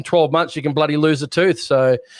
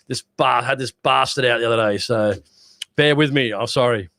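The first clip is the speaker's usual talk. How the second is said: slurring after tooth out. Real, not acted. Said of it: "I'm not opening my mouth fully".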